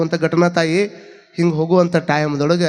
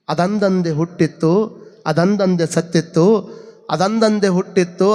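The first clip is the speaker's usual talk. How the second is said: slow, measured verse recital; vachana recitation. Acted. Preacher reciting Basavanna's verse about the festival lamb, slow recitation. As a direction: recite each line slowly, drawing out the endings.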